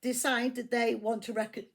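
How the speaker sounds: laughing through hiccups; hiccuping, stumbling on "rec-". Real, not acted. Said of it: "excuse me for the hiccups".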